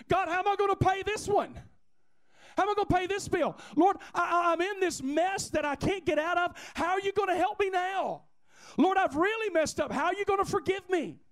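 high, urgent pleading with God; desperate mock prayer. Believer in a mess begging God for help, acted pleading. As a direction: plead like someone stuck in a mess.

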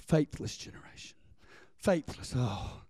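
whispered rebuke. Retold or imitated. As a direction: breathe it out with disappointment.

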